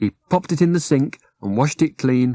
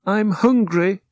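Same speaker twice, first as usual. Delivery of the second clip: drowsy bat correcting them gently; a high, dreamy little bat; sleepy bat; 8 semitones higher than usual. Acted.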